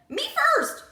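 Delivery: loud high shout; crying out. A narrator's reading. Piglet yelling to be first in line. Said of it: "rang out".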